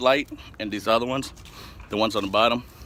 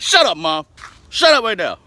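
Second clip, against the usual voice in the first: retold shout; 10 semitones higher, 9 dB louder than usual. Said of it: "I'm like".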